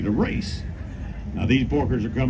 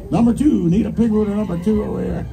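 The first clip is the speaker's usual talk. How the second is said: loud call to the bleachers; 8 semitones higher, 3 dB louder than usual. Real, not acted. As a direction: call it out over the crowd. Calling out pig numbers to crowd.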